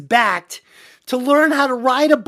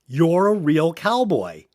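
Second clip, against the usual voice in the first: slow, lower, impressed praise; admiring; 4 semitones lower than usual. Acted. Sissy to Wes after his ride, admiring. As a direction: act smitten, drawing the words out. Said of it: "and she says to him".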